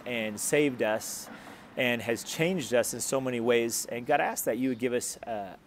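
earnest spoken prayer to the congregation. Acted. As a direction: pray sincerely, measured and steady. Pastor leads closing prayer.

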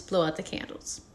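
whispered, air blown out; breathy exhale. Shown as a demonstration. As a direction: blow the words out on breath. Breath exercise demo.

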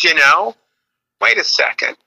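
imitated mom, halting, then very high punchline; pondering mom. Comic retells mom recalling affair, pondering mom voice. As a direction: stall with pauses, then jump way up.

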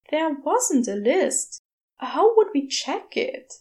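a lightly voiced flustered angel; Aziraphale voice. Aziraphale objects.

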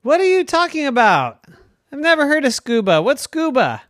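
high, baffled cartoon dad; a confused father, voice jumping up; puzzled daddy unicorn.

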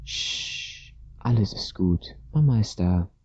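a hushed shush into gentle reassurance; lightly voiced mother calming her child; soothing. A narrator's reading. Mother comforting her crying daughter, soothing. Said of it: "um sie zu beruhigen".

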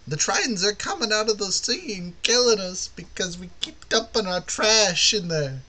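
high-pitched put-on townsfolk voice; mock outcry about invaders; acted complaint. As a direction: wail it high, drawing out the last words. Voicing villagers in a conflict.

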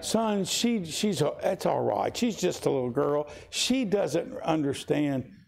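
a hint of a grandmother defending the child; pleading mother. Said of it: "I'm dealing with my mom again".

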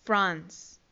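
"France" as one syllable ending in a long s; English pronunciation. Shown as a demonstration. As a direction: model "France" for learners, low pitch. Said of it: "Francia se dice". ("France" pronunciado en inglés, una sola sílaba)

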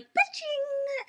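high, slow ba-ching; imitated seatbelt click. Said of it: "did the motion with it".

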